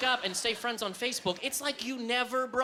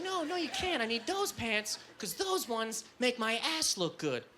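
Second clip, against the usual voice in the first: put-on girl voice; 5 dB quieter than usual. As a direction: do the girlfriend's squeaky voice. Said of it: "that girl voice".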